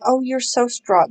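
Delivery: slow, drawn-out imitation of pitying sympathy; mildly mocking, pitying praise. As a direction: imitate someone gushing with pity. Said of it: "that smile, pity".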